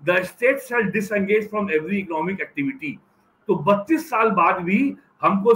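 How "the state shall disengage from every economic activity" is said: slow, measured quoted budget line; quoting Manmohan Singh. Retold or imitated. Recalling the 1991 budget speech, slow and deliberate quote. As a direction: read it out slowly, like a solemn pronouncement. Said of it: "तब ये कहा था".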